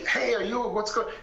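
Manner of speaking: half-hearted imitation of a shouting driver; a hint of an angry driver leaning out of a car; mock yell. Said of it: "yelling at him, like".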